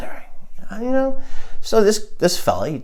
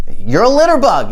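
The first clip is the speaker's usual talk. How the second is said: raised-pitch mock yell; mock scream; 6 semitones higher, 4 dB louder than usual. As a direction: imitate screaming an accusation down the street. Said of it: "I followed him down the street screaming".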